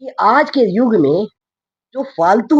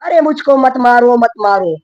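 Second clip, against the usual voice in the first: pleading cow; 5 semitones higher, 4 dB louder than usual. Acted. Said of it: "गौ माता अर्ज करे है खड़ी तबेले में".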